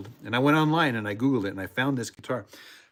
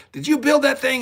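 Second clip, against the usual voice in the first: imitating curious people; 12 semitones higher, 7 dB louder than usual. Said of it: "People said".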